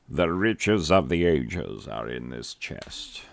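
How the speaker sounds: grand announcement. Acted. Teacher reading out the chest's message, grandly. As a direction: announce the treasure slowly and grandly.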